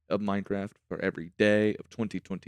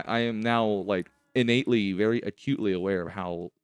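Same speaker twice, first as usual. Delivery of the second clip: talking with a retainer in; retainer lisp. Real, not acted. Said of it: "how much my retainers impact the way I speak".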